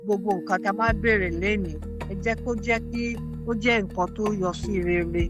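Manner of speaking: measured, reverent closing prayer; an elder's spoken blessing; Yoruba prayer. Real, not acted. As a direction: pray aloud in Yoruba, phrase by phrase. Elder prays in Yoruba to close.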